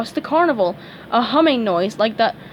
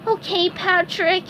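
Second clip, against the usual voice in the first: higher, slow resigned voice; sad SpongeBob; 9 semitones higher than usual. A narrator's reading. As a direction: accept the blame sadly. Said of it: "he said sadly".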